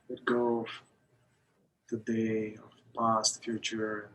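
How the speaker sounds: measured meditation guidance with long pauses; guided meditation. Acted. Teacher leading a group through breath awareness, guided meditation. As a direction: guide them into the breath, unhurried, phrase by phrase.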